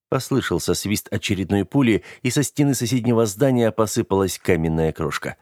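ordinary delivery, nothing marked

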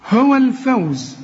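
هو الفوز slow with thin, fronted vowels; all letters light. Shown as a demonstration. Teacher reciting the verse as model, light هو الفوز. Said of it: "كل الحروف مرققة".

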